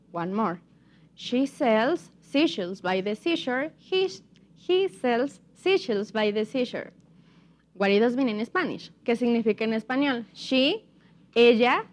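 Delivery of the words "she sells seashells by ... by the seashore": slow, careful tongue twister; slow demonstration. Shown as a demonstration. Teacher repeats the tongue twister for the class, slowly. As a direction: keep it slow, with gaps between phrases. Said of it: "but now a little bit faster".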